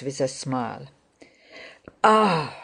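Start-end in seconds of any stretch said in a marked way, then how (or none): 2.0-2.6 short, understated cry of "Ah!"; restrained near-scream. A narrator's reading. Rostov reacts to the losing card, mild near-scream. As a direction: let out a held-back, narrated near-scream. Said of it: "Rostov almost screamed".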